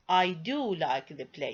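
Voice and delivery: "do" stressed before the verb; emphatic. Shown as a demonstration. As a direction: underline the statement by leaning on "do". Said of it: "I want to emphasize the verb like".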